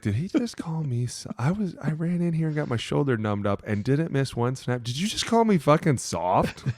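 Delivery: high, laughing, slowed indignation; laughing fake outrage; mock outrage. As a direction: ham up being insulted. Retelling being called soft.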